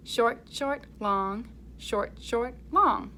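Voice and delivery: short clipped beats, long held ones; short and long rhythm. Shown as a demonstration. Teacher modelling the rhythm pattern for children. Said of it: "Can you say that with me".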